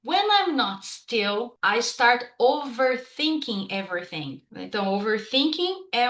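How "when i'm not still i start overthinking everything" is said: slow, careful English example sentence; teacher reading an example line, slow and clear. Shown as a demonstration. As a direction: read the example slowly for learners. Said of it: "Então, vamos ali".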